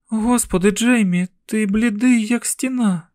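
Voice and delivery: a mother alarmed at her pale son; worried mother. A narrator's reading.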